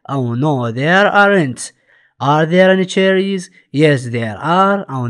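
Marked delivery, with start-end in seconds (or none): 0.3-1.6 very slow, clear English; slow model answer. Shown as a demonstration. Teacher models the answer for the class, very slow and clear. 2.2-3.4 slow, clear classroom English; slow model reading. Shown as a demonstration. Teacher reads the question slowly to pupils, deliberate and clear. 3.8-4.9 very slow, clear English; slow model answer. Shown as a demonstration. Teacher models the answer for the class, very slow and clear.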